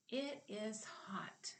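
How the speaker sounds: soft slow whisper; hushed classroom whisper. Shown as a demonstration. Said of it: "whisper demo".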